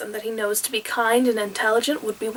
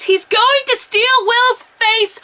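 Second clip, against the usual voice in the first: higher, slow and louder, stunned; incredulous exclamation; 11 semitones higher, 4 dB louder, slower than usual. Real, not acted. Recapping a wild plot twist to viewers, incredulous. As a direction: say it like you can't believe the show went there. Repeats the plot point in disbelief.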